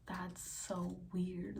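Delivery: slow soft whisper; hushed wonder. Retold or imitated. Numb-legged patient marvelling, slow whisper. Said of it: "And I was like".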